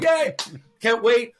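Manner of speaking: high, loud pretend enthusiasm; hammed-up excitement; mock cheer. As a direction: play up a giddy reply to friends. Answering buddies' cheers from the set.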